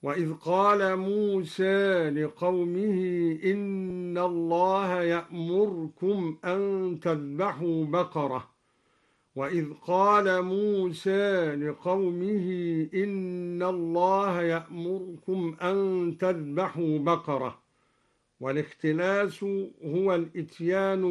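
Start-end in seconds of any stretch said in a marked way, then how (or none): 0.0-8.5 موسى with the alif tilted halfway toward e; slight leaning of موسى, يأمركم vowel snatched; taqlil on musa. Shown as a demonstration. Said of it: "قرأ الدوري بتقليل ألف موسى". 9.4-17.6 يأمركم with the r vowel dropped; ya'murkum read with a silent r; sukun in ya'murkum. Shown as a demonstration. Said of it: "وله في يأمركم الاختلاس والإسكان".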